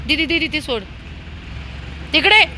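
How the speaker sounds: scolding the dogs. Real, not acted. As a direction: order the dogs about sharply. (कुत्र्यांना उंच मोठ्या आवाजात रागावणे)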